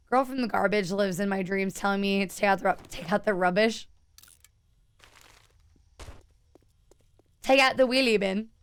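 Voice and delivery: put-on light British-Irish accent for Bethany; a lightly done British accent, slowed on rubbish; Bethany's accent. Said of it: "Bethany gets screwed up".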